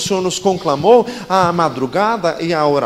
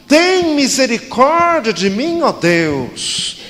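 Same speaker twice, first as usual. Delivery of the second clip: the psalm cried out high, slow and strong; strong intonation; 5 semitones higher, much slower than usual. Shown as a demonstration. The pastor shows the congregation how to read the cry strongly. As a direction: lift it up as a desperate plea. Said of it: "lemos todos juntos com entonação forte".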